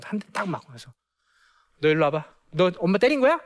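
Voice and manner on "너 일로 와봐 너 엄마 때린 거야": acted-out scolding mom, louder and rising in pitch; angry mother. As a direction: confront the child like a suddenly cross mother. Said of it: "갑자기 화가 나죠".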